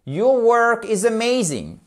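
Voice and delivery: high "Your work", falling at the end of "amazing"; falling statement intonation. Shown as a demonstration. Teacher modelling an affirmative sentence, falling intonation. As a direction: start "Your work is amazing" high and slow, then descend. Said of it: "ça descend".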